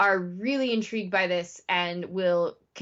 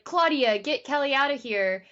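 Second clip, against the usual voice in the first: higher-pitched retold urgent command; lightly acted call to get someone out; urgent order; 4 semitones higher than usual. Pete to Claudia during the shooting, urgent order.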